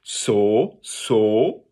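"so" as a pure drawn-out O; O sound. Shown as a demonstration. Teacher giving a first step, plain O sound in "so". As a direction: hold an open O in "so", no nasal yet. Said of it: "make a O sound to start".

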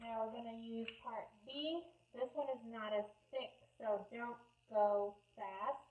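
muffled through a respirator mask; talking behind a respirator. Real, not acted. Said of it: "Sorry if I sound like Darth Vader".

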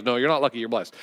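correcting Christian. Retold or imitated. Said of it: "a Christian will get onto you".

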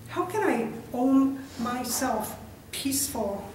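spoken verse, each line falling gently at its end; poetry reading. Acted. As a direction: read it line by line with long pauses. Reads own poem aloud.

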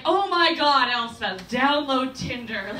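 mock exasperated friends; exasperated urging. Friends telling her to download Tinder, exasperated.

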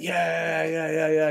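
mock the young men cheering back; a lightly voiced crowd of eager fans; imitating the crowd. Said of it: "were like".

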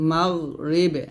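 "মাগ রিবে" with a thick, unbounced gh; heavy ghain. Shown as a demonstration. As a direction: hold the gh in "মাগ", then bounce "রিবে". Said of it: "মোটা উচ্চারণ করতে হবে". (মোটা গন দিয়ে "মাগ রিবে")

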